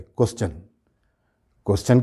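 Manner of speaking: "क्वेश्चन" as kwes-chun; fluent "क्वेश्चन", chan ending; correct pronunciation. Shown as a demonstration. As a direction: end "क्वेश्चन" with ch. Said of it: "सब लोग सही बोलते हैं".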